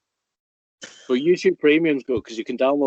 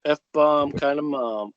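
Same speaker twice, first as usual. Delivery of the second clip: drawn-out savouring; 2 semitones higher, much slower than usual. Acted. Savouring the username.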